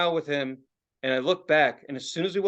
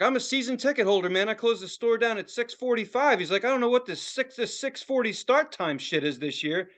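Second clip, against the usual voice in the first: mildly worked-up rant, pitched up; going off; 6 semitones higher than usual. Retold or imitated. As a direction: imitate a fan griping about start times. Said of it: "just going off on the start times".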